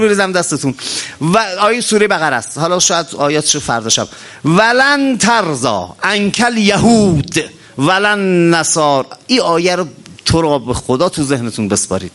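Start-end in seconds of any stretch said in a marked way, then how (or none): 4.4-9.1 slow, drawn-out chanted verse; slow Quranic chant of the verse; Quran recitation. Acted. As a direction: intone the verse slowly, stretching each word.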